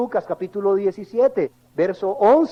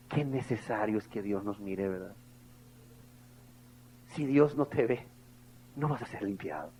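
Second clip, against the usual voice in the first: much lower and softer, grave sermon voice; hushed preaching; 5 semitones lower, 5 dB quieter than usual. Acted. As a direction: speak low so they lean in. Quiet reflective stretch of sermon.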